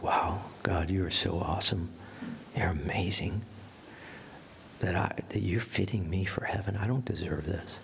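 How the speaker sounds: a quiet, awed prayer; hushed prayer whisper. Retold or imitated. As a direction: whisper it softly, in awe of God. Speaker's own prayer to God.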